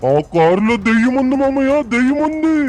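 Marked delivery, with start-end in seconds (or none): 1.9-2.5 ghost voice. Acted. Repeat in eerie other voice.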